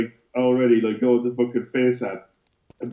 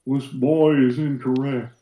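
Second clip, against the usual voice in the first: Hank Hill meets Kratos voice; 2 semitones higher, slower than usual. Acted. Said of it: "halfway between Hank Hill and Kratos".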